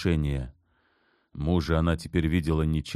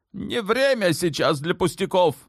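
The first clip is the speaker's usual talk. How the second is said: sharply; 13 semitones higher than usual. A narrator's reading. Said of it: "резко оборвала её Кёсим Султан".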